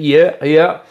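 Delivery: lightly imitated entrance shout; wrestler catchphrase. Co-host recapping the wrestler's entrance, mimicked catchphrase.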